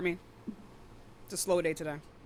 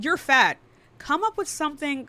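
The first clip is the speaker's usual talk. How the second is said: raised-pitch imitation of an angry caller; mock angry caller; 6 semitones higher than usual. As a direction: mimic their mad insult, half-seriously. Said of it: "They got really fucking mad".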